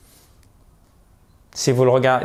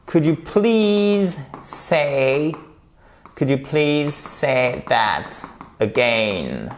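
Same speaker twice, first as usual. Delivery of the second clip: drawn-out, baffled request to repeat; politely fail to understand, stretching the words; puzzled listener; 3 semitones higher, slower than usual. Acted. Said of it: "si vous dites my parents".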